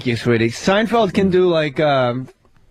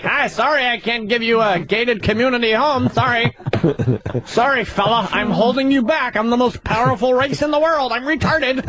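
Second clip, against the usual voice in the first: lightly pitched-up, chirpy apology; mock polite white guy; 3 semitones higher than usual. White man apologises for holding someone back, mock-polite voice. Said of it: "Instead of like".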